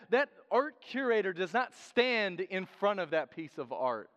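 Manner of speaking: ordinary talk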